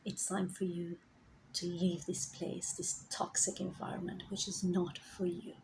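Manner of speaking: soft, hushed warning; a quiet whispered inner voice; guides whispering. Retold or imitated. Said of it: "They were actually telling me and warning me".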